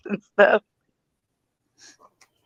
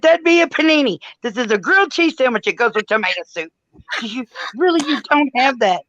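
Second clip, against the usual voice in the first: higher, retold outrage over a missing sandwich; exasperated disbelief; 7 semitones higher than usual. Retelling her video call, exasperated disbelief at the friend. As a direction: play up mock indignation, pitched high. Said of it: "I'm like".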